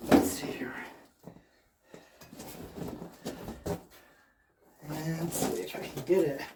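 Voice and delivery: strained, breathy lifting voice; carrying heavy load. Real, not acted. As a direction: grunt it out while lifting. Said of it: "Oh boy, that is heavy".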